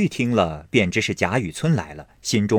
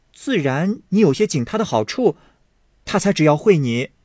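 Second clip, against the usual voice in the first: high, playful mockery; lightly voiced girl teasing; teasing young lady; 5 semitones higher than usual. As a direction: needle him with a grin. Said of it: "笑道".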